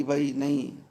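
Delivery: mild retold plea fading to a whisper; pleading father. Storyteller voicing the king begging his son to stay, fading. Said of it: "रो रहे थे".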